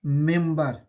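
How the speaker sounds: मेंबर said slowly and firmly; demo word. Shown as a demonstration. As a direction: model the word मेंबर clearly. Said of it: "अगर हम कहें ए".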